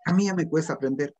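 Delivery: a lightly voiced lazy student's whiny excuse; hint of a complaining adult student; mocking excuse-maker. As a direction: mimic a grown student excusing himself. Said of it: "Hay gente que dice así".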